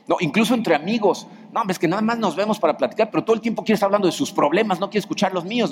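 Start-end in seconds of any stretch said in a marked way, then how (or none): 1.5-5.7 higher, fast, exasperated complaint; griping. Retold or imitated. Friend complaining that the other only talks about himself, fast and higher. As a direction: rattle off the grievance like a fed-up friend.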